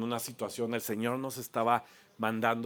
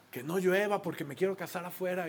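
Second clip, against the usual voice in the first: higher voice imitating an Israeli groom; Israeli-accented plea, lightly put on; 5 semitones higher than usual. Israeli groom wants an outdoor wedding, Israeli accent. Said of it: "con su acento así padrísimo".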